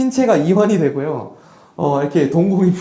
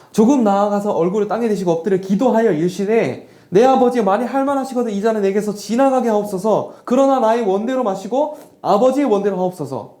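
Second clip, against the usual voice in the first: a lightly raised, solemn reading of the prayer; scripture reading; 3 semitones higher than usual. Acted. Pastor reads Jesus' prayer to the congregation, solemn scripture reading. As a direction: read the verse out like a prayer.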